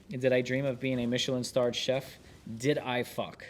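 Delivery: steady, measured book narration; narrating from the page; memoir read aloud. Acted. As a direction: read the chef's memoir to listeners.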